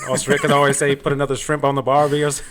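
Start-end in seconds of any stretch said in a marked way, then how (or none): 0.9-2.2 put-on a light, joking stab at an Australian accent; Aussie accent. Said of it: "always comes off as an Aussie".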